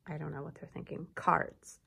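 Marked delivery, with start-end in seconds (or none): 1.1-1.8 whispered word. Shown as a demonstration.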